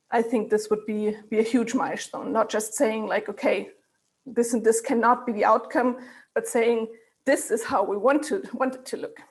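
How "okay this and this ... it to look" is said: short of breath. Real, not acted. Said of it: "I'm a bit short of breath".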